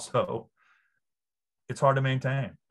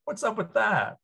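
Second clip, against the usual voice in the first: laughing; 8 semitones higher, 8 dB louder than usual. Real, not acted. Laughing at the coach's Southern act.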